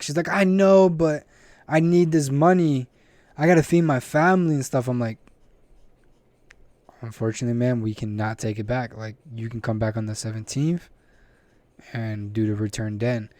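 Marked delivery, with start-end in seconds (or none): 0.3-4.9 imitated pleading customer. Acts out customer pleading for refund. 7.0-13.3 low, softer customer-service refusal; imitated clerk refusal. Acts out clerk refusing the return.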